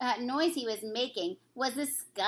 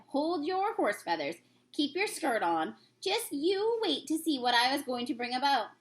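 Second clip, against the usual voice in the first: a lightly voiced kindly giant; friendly old giant, lightly put on; BFG voice; 3 semitones higher than usual. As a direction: read the giant's lines with gentle storybook character.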